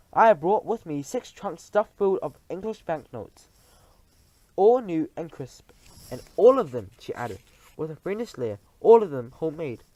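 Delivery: leer over the joke; sly witch queen. Acted. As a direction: witch queen boasting of forged money. Grand High Witch speech.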